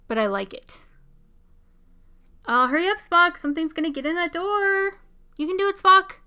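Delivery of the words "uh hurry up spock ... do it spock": excited. Real, not acted. Cheering Spock on at the screen.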